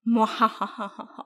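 sinister little chuckle; a villain's evil laugh. Pretend. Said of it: "É uma risada maléfica".

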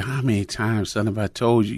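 a father's stern telling-off, normal loudness; upset scolding. Retold or imitated. Upset father scolds his crying son, stern telling-off. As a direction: scold the child for not listening. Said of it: "obviously upset".

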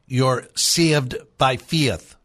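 slow Irish demo, "saved" and "faith" with ee-uh vowels; Irish accent. Shown as a demonstration. Host teaching listeners his Irish trick, slow Irish accent. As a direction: turn each long A into an Irish "ia". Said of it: "You replace A with ia".

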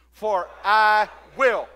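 slow and loud, leaning on "I"; like you mean it. Shown as a demonstration. Preacher leads congregation in saying it like they mean it, emphatic. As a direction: stretch out "I" firmly and land "will" with conviction. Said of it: "Say it like you mean it".

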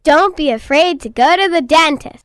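put-on child announcing to everybody out there; best eight-year-old voice. Shown as a demonstration. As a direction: deliver it as a child's public message. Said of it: "in your best eight-year-old voice".

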